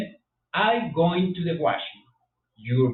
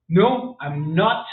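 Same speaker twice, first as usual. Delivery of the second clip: slow wrong not; 3 semitones higher, 5 dB louder, much slower than usual. Shown as a demonstration. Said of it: "no se dice not".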